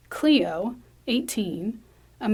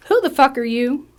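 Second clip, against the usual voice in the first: louder, higher startled demand; hostile challenge; 4 semitones higher, 6 dB louder than usual. Acted. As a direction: confront an intruder sharply. Startled Wanda confronts intruder.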